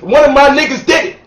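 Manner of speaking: loud, proud hood celebration; hood shout-out. Pretend. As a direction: shout it like your boy just won the title. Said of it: "That's what you're supposed to say if you're in the hood".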